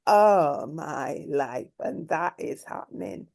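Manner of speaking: slow, low, close to crying; tearful. Real, not acted. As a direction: voice breaking as you say it. Overwhelmed by the injustice.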